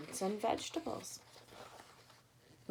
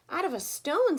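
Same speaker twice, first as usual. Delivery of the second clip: grinning; 9 semitones higher, 7 dB louder than usual. A narrator's reading. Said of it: "said the travelers with a grin".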